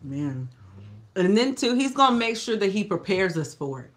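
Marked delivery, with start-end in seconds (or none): 1.2-3.9 talking around a cough drop; mouth full. Real, not acted. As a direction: cough drop in mouth, words a bit thick. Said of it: "I have a cough drop in my mouth".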